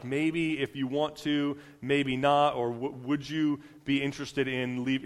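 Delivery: a mock polite, hesitant request; tentative asking. Preacher mimicking what Jesus is not doing, tentatively asking. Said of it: "he's not, like, asking".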